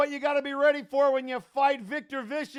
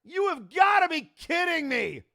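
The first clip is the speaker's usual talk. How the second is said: angry fan shouting; 4 semitones higher, 4 dB louder than usual. Real, not acted. Interference costs the title.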